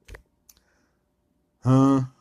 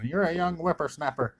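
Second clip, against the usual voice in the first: higher mock retort, a bit pitched up; mock trash talk; 7 semitones higher than usual. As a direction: snap back like a grumpy old man. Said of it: "talking trash".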